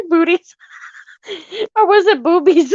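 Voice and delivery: calling out to mama, joking; teasing. Real, not acted. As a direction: needle her with the word. Teasing mama about her word.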